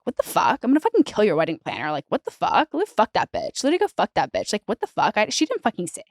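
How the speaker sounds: imitating someone taking great offense; offended. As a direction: act out an affronted, sweary protest. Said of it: "very, like, offended by that".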